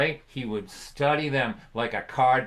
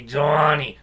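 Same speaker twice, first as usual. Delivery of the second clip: dad's gravelly voice; 5 dB louder than usual. Retold or imitated. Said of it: "His voice had been graveled by cigarettes".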